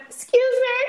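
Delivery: high, loud indignant excuse me; indignant exclamation. Retold or imitated. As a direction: demand it, shocked and loud. Confronting the weigh-in woman.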